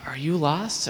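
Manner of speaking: gentle whispered question. Retold or imitated. Kind lady whispering to a crying lost boy. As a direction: whisper it to a scared child.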